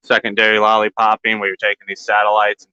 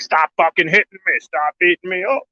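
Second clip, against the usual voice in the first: voicing the plant; 9 semitones higher than usual. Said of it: "She's like".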